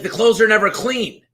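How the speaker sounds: high, whiny complaining neighbor; mock-whiny high complaint; crabby lady. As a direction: nag like a crabby wife. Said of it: "She's like".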